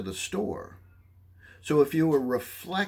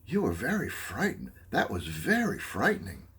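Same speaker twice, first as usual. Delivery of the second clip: reflecting feeling. Shown as a demonstration. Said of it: "listener could say".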